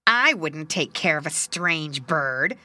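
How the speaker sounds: slow, loud, snooty tree; proud birch tree. Acted. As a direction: sniff proudly and slowly.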